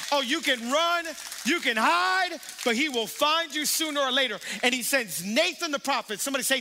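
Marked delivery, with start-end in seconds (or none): 0.1-4.4 louder, higher building cry; rising preacher's shout; preaching climax. Real, not acted. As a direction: preach it out full force.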